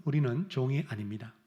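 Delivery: ordinary talk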